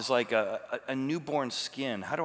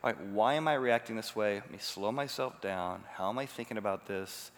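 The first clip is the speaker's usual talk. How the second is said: calm self-talk; 2 semitones lower, 3 dB quieter than usual. Pretend. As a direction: talk yourself down gently. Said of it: "engage my prefrontal cortex to say".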